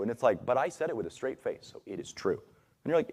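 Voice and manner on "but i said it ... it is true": lightly voiced smug liar, trailing softer; mock a liar sure of himself, dropping quieter. Mocking a liar who shrugs off the truth, smugly. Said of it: "they tell it just super confidently".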